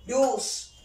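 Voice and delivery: "virus" as VI... rus, second syllable falling away; corrected "virus" with the weight on the first syllable; correct stress on virus. Shown as a demonstration. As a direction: say "virus" in two parts, stressing VI. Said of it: "no, yo digo".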